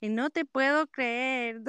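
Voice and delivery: slow, drawn-out mock amazement; lightly acted cheerful disbelief; imitated disbelief. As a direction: stretch it out like upbeat Venezuelans do. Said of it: "entonces me dicen".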